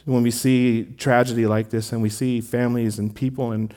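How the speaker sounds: earnest pastoral prayer, unhurried. Real, not acted. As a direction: pray aloud for grieving families. Pastor leads prayer for tragedy.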